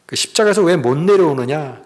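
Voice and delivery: imitated jeering challenge; lightly mock and dare him; retold scornful taunting. Preacher voices crowd daring Jesus to descend, mildly scornful. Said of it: "그러면서 막 비웃는".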